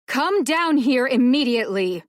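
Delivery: furious order. A narrator's reading.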